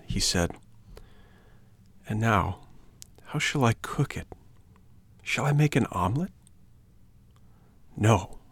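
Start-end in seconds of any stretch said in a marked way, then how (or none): 2.1-8.4 hushed, eager wondering over the egg; puppet musing. A narrator's reading. Hungry puppet holding his egg, softly musing aloud.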